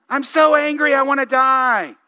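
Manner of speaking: dramatic Jonah. Retold or imitated. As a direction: ham up the self-pity. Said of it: "Jonah is so dramatic".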